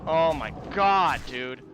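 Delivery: loud, slow groan of disbelief; exasperated. Real, not acted. Gamer forced to run back, groaning loudly in frustration. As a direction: drag it out, fed up.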